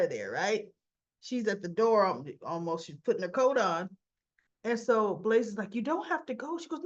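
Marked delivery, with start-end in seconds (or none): 5.7-6.6 says it through a laugh, pitched higher; a laughing, breezy offer to stay. Retold or imitated. Blaze half-laughing to departing guest.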